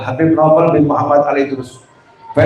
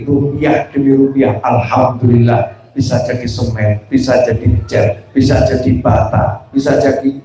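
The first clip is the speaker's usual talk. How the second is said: lower, calm, thankful prayer; grateful prayer; 3 semitones lower than usual. Shown as a demonstration. Preacher demonstrates a thankful prayer, lower and calm. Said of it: "berdoa dengan cara yang lebih bagus".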